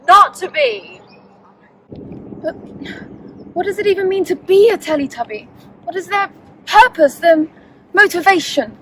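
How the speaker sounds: hammy method actor soliloquy; tabletop player in character. Acted. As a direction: overwrought theatrical pondering. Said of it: "stay in character. It's all part of the, the method".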